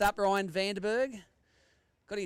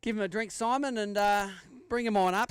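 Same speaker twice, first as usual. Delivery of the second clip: raised voice calling the next angler up to the scales; 4 semitones higher, 4 dB louder than usual. Real, not acted. MC calling the next angler up to the scales, loud call. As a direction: call him up to the weigh-in, higher and louder.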